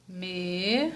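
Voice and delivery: "Menina" as me, ni, na with long pauses, softly; syllable by syllable. Shown as a demonstration. Teacher helping pupils think, menina said syllable by syllable. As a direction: split "Menina" into three soft, isolated syllables. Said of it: "Vamos falar devagar".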